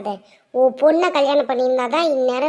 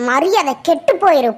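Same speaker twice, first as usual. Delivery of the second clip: angry order; 5 dB louder than usual. Acted. She throws him out.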